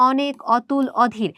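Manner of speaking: অনেক, অতুল, অধীর each starting with open 'aw'; open o pronunciation. Shown as a demonstration. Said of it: "এই তিনটাই কিন্তু অধ্বনির বিবৃত উচ্চারণের". (অনেক, অতুল, অধীর-এর শুরুতে বিবৃত অ)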